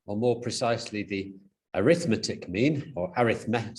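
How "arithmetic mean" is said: arithmetic with stress on the second syllable, a-RITH-metic; noun-style stress. Real, not acted. Lecturer slips while naming the average, arithmetic stressed as a-RITH-metic. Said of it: "sorry, mispronounced that".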